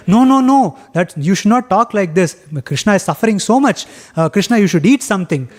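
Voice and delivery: a mother cutting off a joke; scolding worried mother. Retold or imitated. Yashoda scolding, then urging food.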